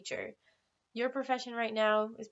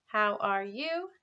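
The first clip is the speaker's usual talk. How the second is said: slow model question; slower than usual. Shown as a demonstration. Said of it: "repeat that with me".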